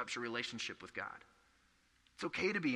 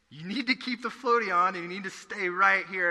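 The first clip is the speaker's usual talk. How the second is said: higher and louder firm parental order; a mock-firm parent keeping the floaty on; imitating insistent parent; 5 semitones higher, 5 dB louder than usual. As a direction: lay down the rule to a kid.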